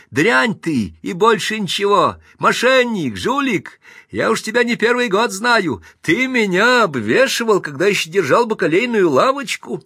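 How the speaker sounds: high, loud scolding shout; angry abuse. Acted. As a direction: lay into an old cheat. Grocer's old customer abuses him.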